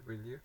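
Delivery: "Will you?" with the end going up; rising tag. Shown as a demonstration. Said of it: "The voice goes".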